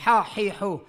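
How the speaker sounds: ہا ہی ہو with a throaty ح; throat letter drill. Shown as a demonstration. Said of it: "ہا، ہی، ہو جو پہلے بتلایا تھا". (حلق سے ہا ہی ہو)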